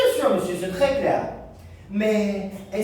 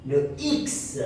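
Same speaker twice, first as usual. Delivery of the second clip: the letter U answering; 4 semitones higher, slower than usual. Pretend. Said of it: "U, qu'est-ce que tu veux?".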